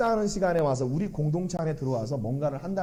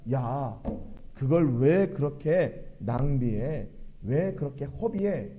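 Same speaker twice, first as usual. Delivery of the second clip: slow, drawn-out mock scolding; retold reproach; 3 semitones lower, slower than usual. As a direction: imitate a mild, lingering reproach. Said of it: "이렇게 그 여인을 책망해요". (느리게 늘여 꾸짖는 흉내)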